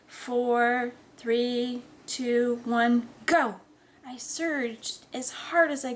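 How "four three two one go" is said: steady count, each number held out; countdown. Acted. Friend restarting the power test, measured countdown. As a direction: count evenly toward the launch word.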